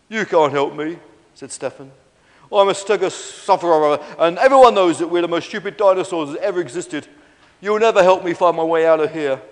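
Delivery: loud, a touch of hopeless dinosaur; lightly voiced Stefan, despondent. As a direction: complain as a self-doubting dinosaur, loudly.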